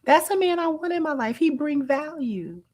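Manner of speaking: mocking quote. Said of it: "how she characterized him".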